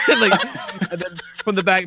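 ordinary talk, nothing marked

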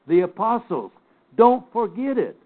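firm teacherly insistence on "Don't forget it"; emphatic. Real, not acted. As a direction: drive home "Don't forget it". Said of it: "I have to be emphatic here".

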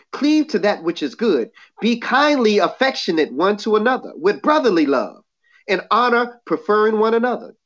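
even, measured reading of the verses; scripture reading. Acted. Preacher reading Romans to his listeners, measured. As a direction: read it out steady to the church.

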